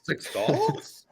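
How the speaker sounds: high rising question; questioning rise. Shown as a demonstration. Reading the line as a question after being corrected, high rise. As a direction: ask it, pitch climbing high. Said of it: "There's a question mark there".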